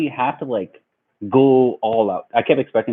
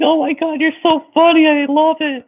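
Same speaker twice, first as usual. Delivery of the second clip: high, loud imitation of a tickled date; cry-laughing; 4 dB louder than usual. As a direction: squeal it as if helpless with laughter. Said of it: "like, cry laughing".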